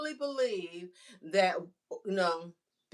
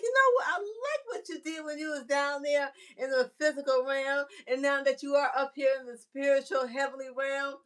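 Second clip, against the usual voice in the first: voice of God; 7 semitones higher than usual. Retold or imitated. God's voice praising her.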